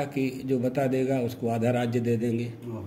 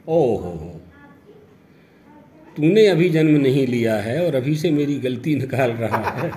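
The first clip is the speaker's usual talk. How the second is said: mock scolding father; 5 dB louder than usual. Father scolds unborn son.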